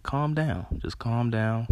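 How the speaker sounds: high, pleading calm down aimed at honkers; fed up with drivers honking at a green light, begging them to calm down; exasperated calm down. Acted. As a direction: tell the impatient driver to chill out. Scolding impatient honking drivers.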